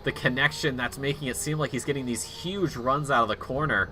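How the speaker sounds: steady, measured race commentary; live play-by-play. Acted. Commentator calling a sim race to viewers, steady play-by-play. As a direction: call the laps in an even broadcast voice.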